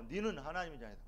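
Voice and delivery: soft, grave warning from a mother; mother's quiet warning. Retold or imitated. Mother gravely reminding her son, softly. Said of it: "엄마 그 소리 말하니까".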